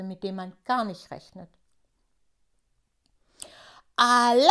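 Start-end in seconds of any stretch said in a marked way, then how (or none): 4.0-4.5 loud, sung-out alarm cry; shouting alarm. A narrator's reading. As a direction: yell the warning. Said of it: "schreit Tutu da".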